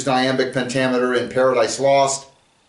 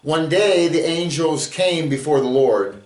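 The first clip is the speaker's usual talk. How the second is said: measured verse reading that leans on the rhymes; poem reading. Acted. Teacher reads his own Job sonnet to the class, measured. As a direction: let the sonnet's beat carry it.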